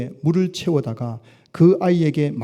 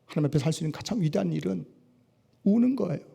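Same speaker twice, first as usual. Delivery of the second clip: soft and quick; 3 semitones higher, 6 dB quieter, faster than usual. Acted. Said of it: "phrase repeated from 50".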